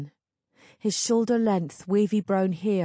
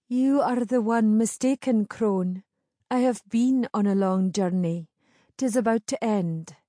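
put-on higher, firm young woman; proud young woman; 3 semitones higher than usual. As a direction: stand your ground proudly. Moira character voice.

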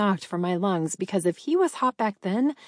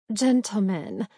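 simpering. Acted. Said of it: "Lana simpered".

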